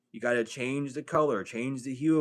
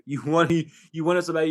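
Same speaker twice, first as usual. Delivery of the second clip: laughing mockery; 3 semitones higher, 6 dB louder, faster than usual. Real, not acted. Mocking someone's wanting.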